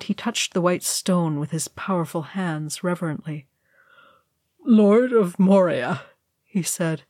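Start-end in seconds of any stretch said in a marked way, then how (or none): 4.6-6.0 slow, rasping grief; wrecked rasp. A narrator's reading. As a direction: rasp it reverently. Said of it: "his booming voice wrecked and rasping".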